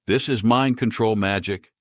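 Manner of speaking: a mage yells her verdict at the shopkeeper. Acted. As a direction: yell the accusation. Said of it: "she yelled".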